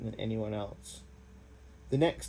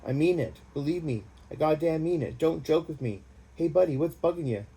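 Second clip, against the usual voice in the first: panicked; 5 semitones higher, 3 dB louder than usual. Acted. Randy panicked under fire.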